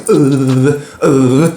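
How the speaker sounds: hammed-up nervous stammer; mock stammering players. Players stammering before Zidane, mock nervous. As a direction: stutter like a scared player. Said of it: "ils vont être comme ça".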